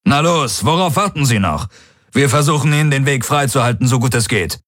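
urgent go-ahead. A narrator's reading. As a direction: urge them to get moving. Commander urges them off in battle. (drängende Aufforderung)

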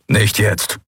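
a touch of a growl, stress on "nicht"; understated growl, "nicht" stressed; mild growl. Acted. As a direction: snap "Nicht jetzt" with "nicht" stressed, falling. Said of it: "knurrte Kero".

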